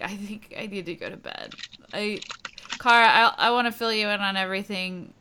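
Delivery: lightly voiced sad drunk; a hint of tipsy sadness. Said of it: "like, sad drunk".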